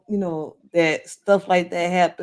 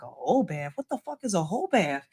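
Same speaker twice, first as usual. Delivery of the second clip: shocked disbelief; 6 dB quieter than usual. Retold or imitated. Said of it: "I literally just like that".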